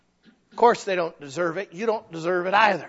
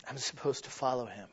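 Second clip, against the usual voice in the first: quiet repeat; 6 semitones lower, 12 dB quieter than usual. Shown as a demonstration. Preacher softly repeating the call to follow Jesus. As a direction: follow him said much softer and low. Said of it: "repeated line".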